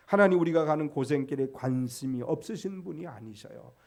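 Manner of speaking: ordinary delivery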